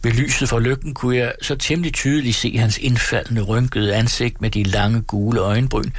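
steady storytelling read for the radio; story narration. A narrator's reading. Narrator reading Turgenev to radio listeners, measured storytelling. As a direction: read the tale aloud to listeners, evenly.

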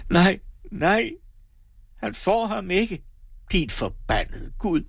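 high-pitched desperate refusal; anguished and defiant; desperate defiance. A narrator's reading. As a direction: curse through a dry, anguished cry. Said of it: "En underlig tør hulken".

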